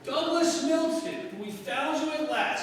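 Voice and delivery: excited. Acted. Finding the lost heir.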